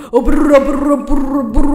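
loud, teeth-chattering brrs; mock shivering brr. Pretending the resident showers in cold water, loud shivering brrs. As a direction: shiver out the brrs like icy water hits you.

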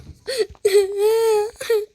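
loud, high mock sobs; pretend sobbing. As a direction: burst into hammed-up crying. Pretend crying in the role-play.

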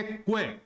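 क्वे as one syllable, kw plus long e; correct pronunciation. Shown as a demonstration. Teacher showing the correct sound, क्वे as one kw-e syllable. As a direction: say क्वे with a kw glide into e. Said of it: "सही कैसे बोला जाता है".

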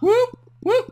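high, loud whooping siren. Pretend. Imitates siren sound.

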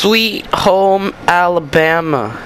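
lightly put-on silly voice; slow sing-song in a mild funny voice. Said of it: "You mean the, this voice".

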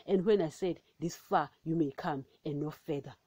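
measured, solemn Bible reading; scripture reading. Acted. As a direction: read it as the word of God. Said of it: "I'll read it again".

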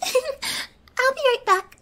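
high, loud, slow and sing-song through a laugh; giggling. Acted. Captor giggling to her captive after the threat. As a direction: flip to cheerful as if nothing happened.

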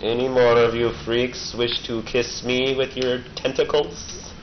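slow, hammed-up tough-guy taunt; mock action hero. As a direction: taunt the monsters like a cheesy movie hero. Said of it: "I don't know why I just did that".

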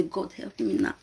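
soft, near-whispered retold plea to God; murmured prayer. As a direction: recount a hushed prayer for help. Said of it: "I come put am for God hand".

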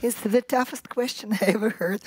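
high, flustered oh oh oh; flustered surprise. Real, not acted. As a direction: caught off guard by the question, fumbling. Taken aback by tough question.

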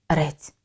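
рець said slowly as a separate syllable; рець set apart after a pause; second syllable alone. Shown as a demonstration. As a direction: isolate the syllable рець, drawn out. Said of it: "Другий".

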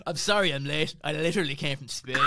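bad Scottish accent, the last line near a shout; hammy Scottish accent, punching the end; mock Scottish accent that ends in a shout. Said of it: "that's a bad Scottish accent".

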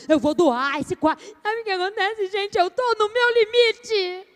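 a worn-out mom about to crack; overwhelmed mother ranting; stressed mother at her limit. Shown as a demonstration. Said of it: "eu vou fazer o choro com vocês".

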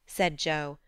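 usual speaking voice

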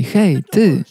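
high, carrying call across the hall; hailing a woman at the back of the room. Retold or imitated. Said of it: "Zawołałem do niej".

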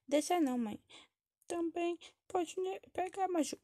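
put-on high-pitched pleading kid; whiny child. Child nags mother about holding baby Maju, high and whiny. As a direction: play a child nagging mother in a high little voice.

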